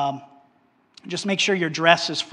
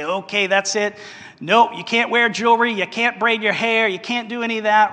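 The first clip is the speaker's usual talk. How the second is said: a raised, hammed-up rule-laying voice, a little faster at the end; mock strict church voice; 4 semitones higher than usual. Preacher mimicking strict churches that ban jewelry, mock stern.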